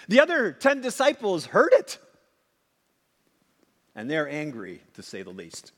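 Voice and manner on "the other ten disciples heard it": preaching swell. Real, not acted. Dramatic peak in sermon.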